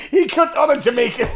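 mock action-movie excitement; joking shout. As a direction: shout it out over the laughter. Excited joking shout over laughter.

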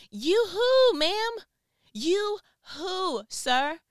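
high-pitched mock teen brush-off, drawn out; dismissive teenager. Teenager acting like they don't know their parent, dismissive.

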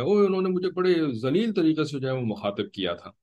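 high-pitched voice of someone complaining; acted complaint. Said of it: "आपसे आकर के शिकायत करेगा".

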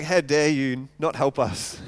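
low, slow, controlled indignation; simmering anger, held down low; angry retort. Retold or imitated. Preacher voices Gideon refused help by the town, low angry retort. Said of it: "He's angry".

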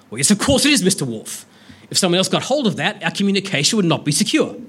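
mildly exasperated Picard impression; the captain lightly impatient with his officer. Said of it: "My apologies for the voices".

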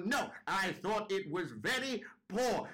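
put-on slow, high old-woman put-down; unrelenting old judge. Old judge worsening her verdict to a shaking dad, slow and cutting. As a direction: draw out the verdict in a swooping high voice. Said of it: "She goes".

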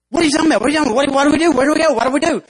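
high, loud frantic questions; panicked ant. Acted. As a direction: fire them off in panic. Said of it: "he completely freaks out".

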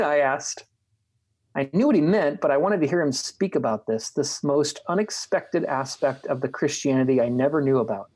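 measured reading of a written dialogue; book reading. A narrator's reading. Host reads a bishop interview to a friend, measured book reading. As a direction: read the passage aloud deliberately, phrase by phrase.

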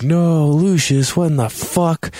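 high, drawn-out cry of disbelief; mock dismay. Player reacting to Lucius's death, mock dismay. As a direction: wail it in hammed-up shock.

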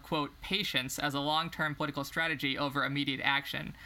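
measured book-reading voice; reading aloud. Acted. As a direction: read the passage out evenly. Reads a book passage.

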